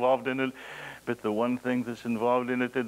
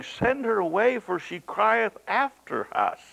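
disciples' plea; 9 semitones higher than usual. Retold or imitated. Disciples begging Jesus.

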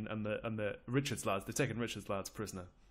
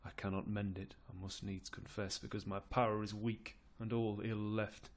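resigned Duke of York. Acted. York admits his power is weak, resignedly.

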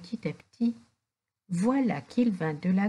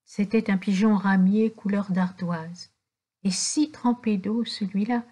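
ordinary delivery, nothing marked

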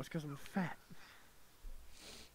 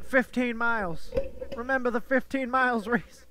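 mock urgent teasing; 4 semitones higher, 4 dB louder than usual. Real, not acted. Teasing friend over dropped mic.

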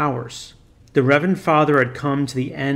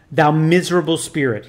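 cried; 4 dB louder than usual. Acted. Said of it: "he cried".

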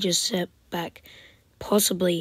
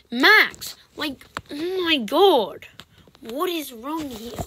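high, loud, slow "oh my god"; exasperated shout; 7 semitones higher, 5 dB louder, slower than usual. Real, not acted. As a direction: cry out in disbelief. Exasperated at opponent.

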